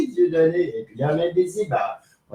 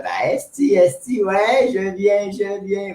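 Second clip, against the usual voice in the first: higher, drawn-out mock ecstasy of a priest; mock climaxing priest; 6 semitones higher, slower than usual. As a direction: lightly imitate a Québécois priest climaxing. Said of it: "le curé, lui, il disait". (curé en extase, imitation moqueuse)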